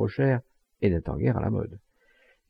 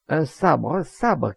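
high, louder mock cry; joker calling out; 6 semitones higher, 4 dB louder, slower than usual. A narrator's reading. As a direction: call out high like a heckler. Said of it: "cria un plaisant". (cri de plaisantin)

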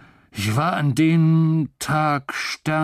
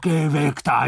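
shouting; 5 dB louder, slower than usual. A narrator's reading. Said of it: "schreit er".

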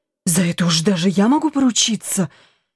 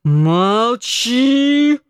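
put-on drunken yell; 3 semitones higher than usual. A narrator's reading. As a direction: cut her off drunkenly. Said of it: "заорал Антон".

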